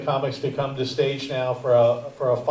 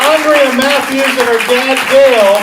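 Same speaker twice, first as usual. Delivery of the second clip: loud, higher announcer calls, names stretched out; stage announcer; 11 semitones higher, 10 dB louder than usual. Acted. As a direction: boom each name out to the room like an emcee. Host announces comics to stage.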